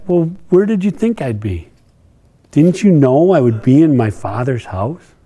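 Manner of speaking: a calm, wondering question to his parents; gentle, innocent question. Shown as a demonstration. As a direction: ask it simply, without any edge. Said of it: "Or did he just ask".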